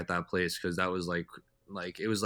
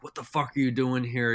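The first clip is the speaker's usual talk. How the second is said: retold livid; 5 semitones higher, 3 dB louder than usual.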